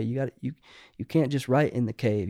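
ordinary talk

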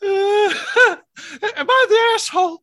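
high put-on voice, hammed-up bewilderment; mock helpless advice-seeker. Clueless husband asking strangers for judgment, mock bewildered.

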